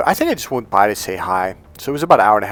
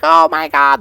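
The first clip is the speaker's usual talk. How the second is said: higher, much louder mock gasp of recognition; hammed-up female hair cutter; imitated excited woman; 5 semitones higher, 9 dB louder than usual. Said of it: "And she's like".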